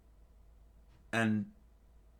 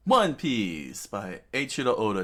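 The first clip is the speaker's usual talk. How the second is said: title announcement; 6 dB louder than usual. Shown as a demonstration.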